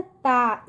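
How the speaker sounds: ता with an open, long aa; pronunciation demo. Shown as a demonstration. Teacher shows how the matra sounds, ता said long and open. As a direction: hold the aa in ता. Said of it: "इस तरह से".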